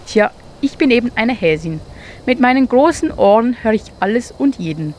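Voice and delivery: a touch of pride; proud. Acted. Hare proudly tells the mole about her ears. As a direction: boast lightly about your big ears. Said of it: "sagte Hanna stolz".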